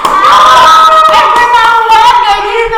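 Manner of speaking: high flustered squeal; embarrassed squeal. Real, not acted.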